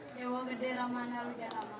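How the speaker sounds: puppet voice. Pretend. Puppet character introduces itself.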